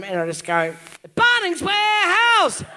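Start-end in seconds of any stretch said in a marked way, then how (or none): 1.1-2.6 loud, high, drawn-out shout; mock whisper in his ear. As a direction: belt out the supposed sweet nothing, slowly. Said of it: "I just whisper in his ear".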